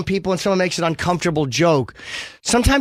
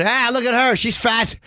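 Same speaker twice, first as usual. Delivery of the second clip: higher, slow rally shout; mock Trump yelling; 5 semitones higher, slower than usual. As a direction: bellow it like at a rally.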